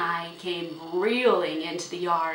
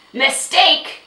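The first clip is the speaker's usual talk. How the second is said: loud, high, incredulous exclamation; outraged; 9 semitones higher, 15 dB louder than usual. A narrator's reading. Horse owner scoffing at father's apology, outraged shout. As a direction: explode on the single word.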